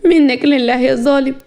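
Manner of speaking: acted weeping woman, voice rising; tearful reproach. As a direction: wail the reproach, half in tears. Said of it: "فاطمه بعياط".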